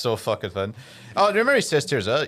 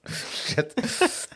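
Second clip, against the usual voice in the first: dismayed whisper; 10 semitones higher than usual. Retold or imitated. Retelling ad character's reaction.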